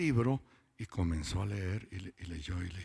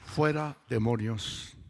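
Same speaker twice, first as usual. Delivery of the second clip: scripture proclaimed; slower than usual. Real, not acted. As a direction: preach the verse out. Preacher quotes scripture with force. (proclamando el versículo con fuerza)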